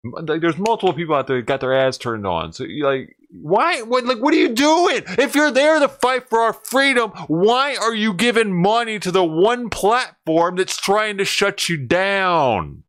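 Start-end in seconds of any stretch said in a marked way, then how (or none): 3.3-12.8 much higher and louder, then slowing; asking streamers why they fund YouTube, exasperated. Real, not acted. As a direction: plead in baffled outrage. Exasperated rhetorical questions.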